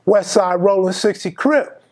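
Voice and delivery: retold proud declaration; mildly proud set announcement. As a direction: state it with understated pride, no heavy authority. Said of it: "I proudly say".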